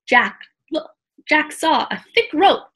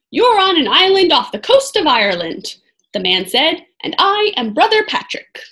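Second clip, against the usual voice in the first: lightly voiced cheerful old monk; amused and kindly curious; jolly monk voice; 5 semitones higher, 3 dB louder than usual. Brother Patrick's voice.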